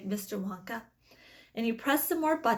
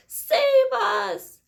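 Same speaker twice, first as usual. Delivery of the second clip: put-on high, loud panicked old woman; terrified cry; 13 semitones higher, 9 dB louder than usual. A narrator's reading. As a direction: shriek for rescue in terror. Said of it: "cried Grandma Josephine".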